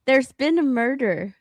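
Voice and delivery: rolled Scottish murder line; Scottish accent. Shown as a demonstration. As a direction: say it like a Glasgow detective. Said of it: "key sentence for a Scottish accent is".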